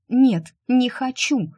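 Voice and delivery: high, loud, slowed shout with a heavy нет; shouted refusal. Acted. Shu shouts her refusal at the tempting child, high loud cry. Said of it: "крикнула она".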